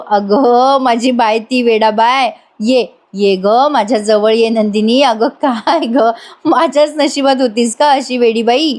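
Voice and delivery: slow, indulgent endearments; affectionate husband, lightly acted; fond coaxing. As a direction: coax a sulking wife closer. Husband fondly coaxes wife closer.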